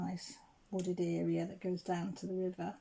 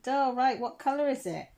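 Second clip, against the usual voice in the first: eager helper; 6 semitones higher, 7 dB louder than usual. Retold or imitated. Dog walker asks.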